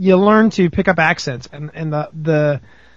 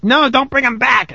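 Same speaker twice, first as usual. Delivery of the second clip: raised-pitch imitation of an objection; higher mimicking voice, same volume; mock protesting guest; 6 semitones higher than usual. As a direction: lightly act out a listener's protest. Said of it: "some of your guests are like".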